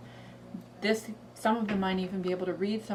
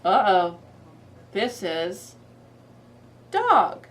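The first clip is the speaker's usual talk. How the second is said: mock alarm; 8 dB louder, much slower than usual. Shown as a demonstration. Dramatic picture-book moment.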